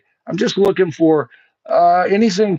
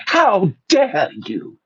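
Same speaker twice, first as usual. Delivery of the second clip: slow, lightly voiced indignant teen activist; Greta imitation; 2 semitones higher, slower than usual. Repeating Greta's line for the audience, slow mock indignation. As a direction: draw out "how dare you" slowly in mock outrage. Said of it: "that's my best Greta imitation".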